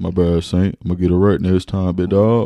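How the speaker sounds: tough, deep, loud bouncer voice. Redoing an apology after a co-host objects to the voice; bouncer voice. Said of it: "This is the bouncer voice".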